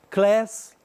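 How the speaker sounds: Class with a flat American a, like "kless". Shown as a demonstration.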